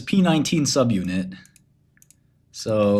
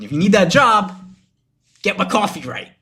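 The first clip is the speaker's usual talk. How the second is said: higher, louder indignant outburst; heated rant; 9 semitones higher, 5 dB louder than usual. Real, not acted. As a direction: raise your voice, fed up. Ranting about his coffee.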